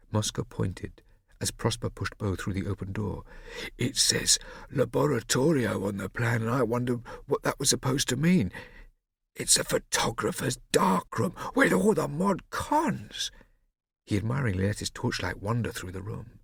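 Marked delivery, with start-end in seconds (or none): 3.8-13.3 whispering. Acted. Whispering in the dark house.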